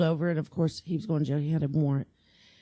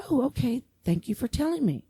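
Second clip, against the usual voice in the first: meek whisper; 7 semitones higher than usual. Retold or imitated. Officer retells meek reply.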